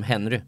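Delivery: Henry läst som det stavas; säg Henry på svenskt vis, med hörbart H; bokstavstroget uttal. Shown as a demonstration. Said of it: "skulle vi uttala honom som". (uttal bokstavligt svenskt av Henry)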